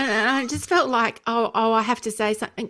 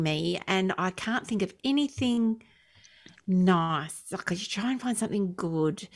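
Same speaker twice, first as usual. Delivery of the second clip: real weariness, trailing off softer; feeling flat; 2 semitones lower, 6 dB quieter than usual. Real, not acted. Podcast host admits to friends he's really annoying me, feeling flat. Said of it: "I'm a little bit flat this week".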